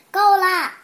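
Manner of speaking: loud, anxious yell; anxious shout. Acted. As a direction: shout in alarm to make it stop. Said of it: "福瑞德焦急地大喊".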